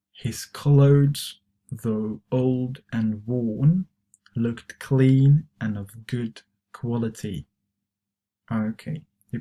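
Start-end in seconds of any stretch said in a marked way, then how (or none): 0.1-7.5 slower model reading. Shown as a demonstration. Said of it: "try to pronounce these expressions".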